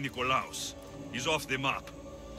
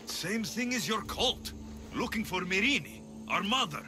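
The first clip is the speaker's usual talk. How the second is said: higher-pitched, urgent explanation; insistent appeal; 5 semitones higher than usual. Acted. Explaining the search for our mother to a sibling, insistent. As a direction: press the point with raised pitch. Pleads in quarrel over lost mother.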